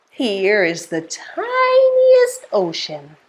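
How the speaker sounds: slow, low, drawn-out storytelling; playful rhyme recital. Pretend. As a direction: present a pretend tiny thing slowly to children.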